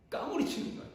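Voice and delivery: hushed echo of the line; whispered repeat. Shown as a demonstration. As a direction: whisper it again for effect. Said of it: "왕이 아이를 보는 순간 까무러치는 거예요".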